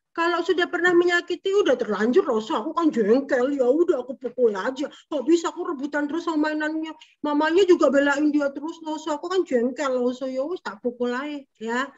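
lightly voiced aggrieved kid; a hint of a child complaining to the teacher; child making excuses.

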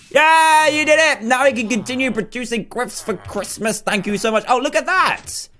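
very high, excited little elf voice; high cheering elf. Acted. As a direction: squeal with joy like a tiny elf. Elf cheers fixed machine.

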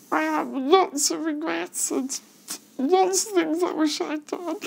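halting, high and tearful, with long pauses; tearful squeaky voice. Real, not acted. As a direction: struggle to speak through tears. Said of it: "going into this squeaky voice".

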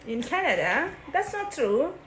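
mock British accent, lightly done; a kid faking a British accent; put-on British accent. Sister teased for her mock British accent. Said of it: "Stop talking that way".

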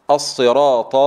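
الصراط loud, with full emphatic ط; deliberate recitation of الصراط; heavy open taa. Shown as a demonstration. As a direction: model الصراط, keeping the ط from thinning to t. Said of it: "ننتبه إلى حرف الطاء".

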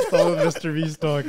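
talking through laughter; laughing while scolding. Real, not acted.

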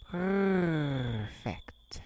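whispered, mock-touched praise; breathy whisper. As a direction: whisper it as if moved to tears.

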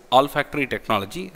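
"olfactory" opening on an AL sound, not OL. Shown as a demonstration. Teacher showing viewers how olfactory is pronounced, starting with AL. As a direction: say "olfactory" as if spelt "alfactory", beginning AL. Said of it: "it is pronounced as A L".

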